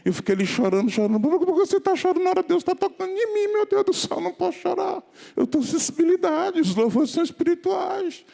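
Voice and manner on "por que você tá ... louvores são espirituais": high-pitched mock plaint, much higher than usual; acted tearful protest. Man explaining why he cries during worship, acted high protest. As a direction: plead it in a raised, put-on voice. Voices exchange about crying in worship.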